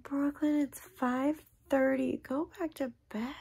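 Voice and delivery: imitating herself shooing her kid back to bed; mom's morning scold. Mother tells daughter Brooklyn to go back to bed, high mock scold. Mom retells telling daughter off.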